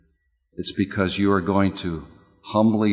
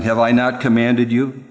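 lifted high and loud, proclaiming; commanding voice of the Lord; booming divine command; 8 semitones higher, 5 dB louder than usual. Acted. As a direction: thunder it out like God's own charge. God's command quoted in sermon.

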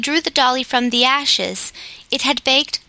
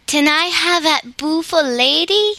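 put-on eager little girl; 5 semitones higher than usual. A narrator's reading. Child begging for the dolly.

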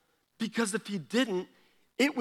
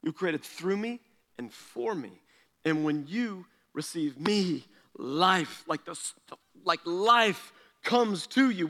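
voicing Jesus; 3 semitones lower than usual. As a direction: speak as Jesus, gently and slowly. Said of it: "And Jesus is like".

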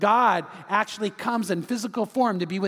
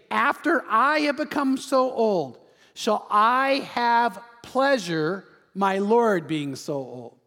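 Sarah's incredulity; slower than usual. Acted. Old Sarah marvels to herself at the promised son, slow and incredulous. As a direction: stretch it out slowly, pitched up at first. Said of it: "Sarah laughed to herself".

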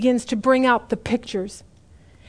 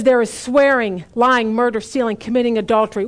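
God listing sins. Acted. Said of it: "He says".

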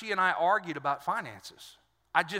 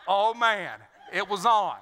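laughing; 4 dB louder than usual. Real, not acted. Recalling the fight at home.

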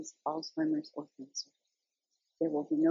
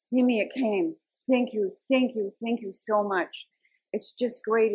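put-on excited boy; 3 semitones higher, 4 dB louder than usual. Grandson's thankful voicemail.

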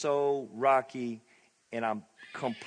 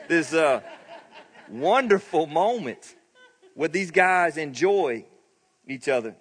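laughing; 3 semitones higher, 4 dB louder, slower than usual. Real, not acted. Laughing while describing joy.

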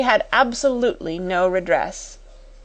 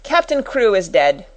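curt; 2 semitones higher, 4 dB louder than usual. Acted. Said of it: "wasted no words".

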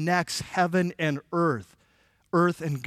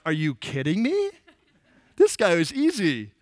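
chuckling through the words; amused, laughing at how easy it was. Retold or imitated. Jesus amused at quick belief.

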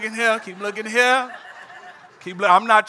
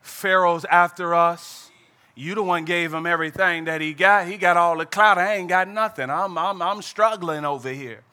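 Moses complaining; 5 semitones lower, 6 dB quieter than usual. Acted. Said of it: "Moses like".

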